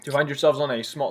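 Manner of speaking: talking with mouth full of muffin; chewing while narrating. Real, not acted. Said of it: "sorry, I'm chewing on a muffin".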